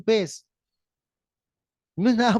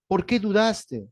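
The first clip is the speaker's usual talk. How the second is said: slow questioning; slower than usual. Acted. Jesus rebukes Pedro.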